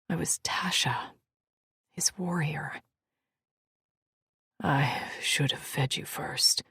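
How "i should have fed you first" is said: soft, tender male murmur; softly. Acted. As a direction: say it gently, low. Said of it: "he said softly".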